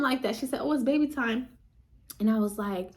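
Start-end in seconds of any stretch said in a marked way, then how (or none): 0.6-1.5 higher-pitched happy announcement; imitated upbeat discovery; excited nurse. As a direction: deliver the news as a thrilled nurse. Nurse announces baby is coming.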